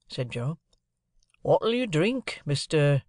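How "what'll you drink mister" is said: lightly voiced sly stranger, high start; a hint of a sly stranger asking; stranger's question. Stranger offers Joe a drink.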